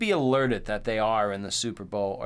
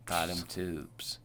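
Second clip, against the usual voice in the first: whispered aside; 5 semitones lower, 8 dB quieter, slower than usual. Pretend. Mock PSA sign-off, whispered.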